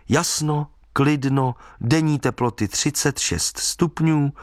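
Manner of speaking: measured forecast read-out, item by item; deliberate newspaper read-out; reading forecast aloud. A narrator's reading. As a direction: read out the forecast slowly, pointedly.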